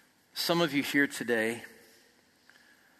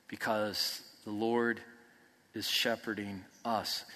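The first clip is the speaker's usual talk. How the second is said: tender reassurance; 3 semitones lower than usual. Real, not acted. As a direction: reassure the anxious listeners gently.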